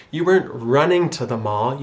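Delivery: usual speaking voice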